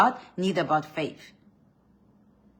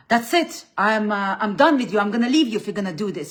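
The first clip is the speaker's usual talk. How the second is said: higher and louder mock threat; hammed-up partner snapping he's leaving; threatening man; 4 semitones higher, 7 dB louder than usual. The man threatening to leave his partner, mock angry. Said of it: "if your man says".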